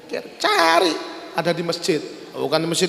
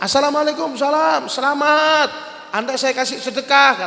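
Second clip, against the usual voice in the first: high-pitched, animated congratulations; excited acted greeting; 6 semitones higher than usual. Acted greeting of the chosen recipient. (ucapan selamat bersemangat, nada tinggi)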